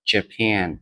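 Japan with stress on the second syllable, ja-PAN. Shown as a demonstration. English teacher showing students how to stress Japan, ja-PAN. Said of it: "trọng âm chính rơi vào âm tiết số hai".

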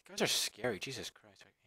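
hushed horrified whisper. Real, not acted. Whispering in shock at the creepy kissing faces. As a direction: breathe it out in disbelief.

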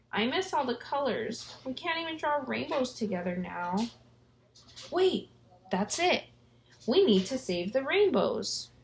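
sad then suddenly excited; excited crayon voice. Acted. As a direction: crayon gets a bright idea. Crayon realizes idea.

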